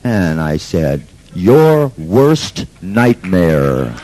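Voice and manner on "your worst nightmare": menacing. Retold or imitated. Confronting the man on stage.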